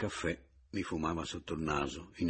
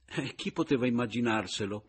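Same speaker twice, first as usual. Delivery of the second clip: exclaiming; 5 semitones higher, 5 dB louder than usual. A narrator's reading. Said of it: "esclamò Pomino".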